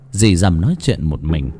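plain reading voice

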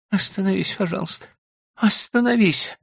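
high, pleading woman's cry; wife pleading. A narrator's reading. Wife begging husband to stop the cart, high and pleading. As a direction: beg him to stop. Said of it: "раздался голос Билли".

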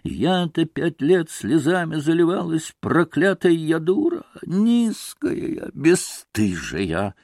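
bitter self-reproach, slowing on the last words; lightly voiced distraught woman. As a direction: berate yourself, drawing out the final insults.

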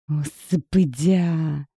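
slow, groaning complaint; mock groan. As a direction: groan it out with rolled eyes. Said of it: "простонала я". (медленно, со стоном, закатив глаза)

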